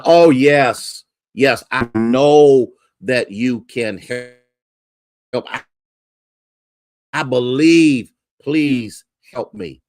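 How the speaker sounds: loud, slow, desperate begging; pleading. Retold or imitated. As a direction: beg the voice in the clouds for rescue. Man on cliff pleads.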